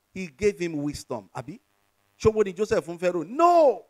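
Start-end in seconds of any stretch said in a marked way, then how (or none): 3.2-3.8 loud, high preacher's "no"; emphatic denial. Real, not acted. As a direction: belt out a resounding no. Emphatic answer to own question.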